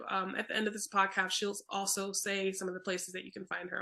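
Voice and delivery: tripping over words; stumbling through the sentence; stuttering. Real, not acted. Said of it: "I'm stuttering over my words today".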